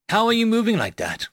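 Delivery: high, lightly voiced puzzled questioner; puzzled Rose. A narrator's reading. Rose asks the narrator about his movement, lightly voiced puzzlement. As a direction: lift the pitch for a curious question.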